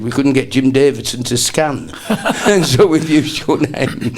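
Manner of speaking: retelling a friend's joke while cracking up; laughing through it. Retold or imitated. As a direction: laugh your way through the punchline. Laughing retold punchline.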